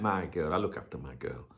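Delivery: protective and loving. Retold or imitated. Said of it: "say something so protective and loving".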